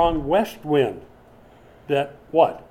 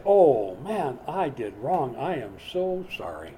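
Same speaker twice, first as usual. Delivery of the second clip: hammed-up remorse. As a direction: moan out a showy "so sorry". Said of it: "immediately people say".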